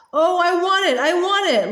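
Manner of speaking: put-on high, pleading child's voice; begging. A narrator's reading. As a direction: beg for it like a longing child. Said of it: "Laura begged".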